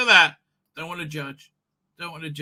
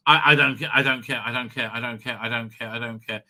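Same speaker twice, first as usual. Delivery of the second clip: repeated I don't care; 5 semitones lower than usual. Real, not acted. Ranting at the producers, a dismissive repeated refrain that fades out. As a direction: brush it off over and over, fading away.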